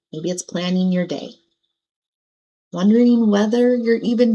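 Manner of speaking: unhurried, pause-filled meditation guidance; guided meditation. Acted. Meditation teacher settling listeners into their seats and breath, gentle guidance. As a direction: guide them through it gently, leaving long pauses.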